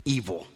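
evil said low and quiet; dark emphasis. Real, not acted. Preacher names her gift, evil said low and soft. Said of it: "her spiritual gift was".

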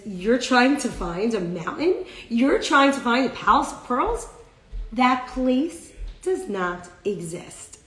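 slow, stressed disbelief, voice lifting on the questions; challenging giant. Acted. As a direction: mockingly question it, then rule it out slowly. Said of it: "kinda starts to fight with Visra".

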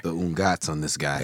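put-on low Yiddish-accented mutter; lightly voiced old Jewish uncle. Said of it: "we gotta talk like this".

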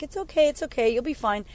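lightly acted reassurance; reassuring. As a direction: retell a parent gently hushing a child. Retells soothing her crying baby.

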